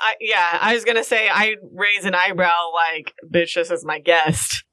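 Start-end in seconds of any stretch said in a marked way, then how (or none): 3.3-4.6 snooty. Acted. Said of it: "Also snooty".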